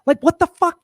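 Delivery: rapid outraged tirade; exasperated rant. Real, not acted. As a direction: fire it off in disbelief. Exasperated rant about history.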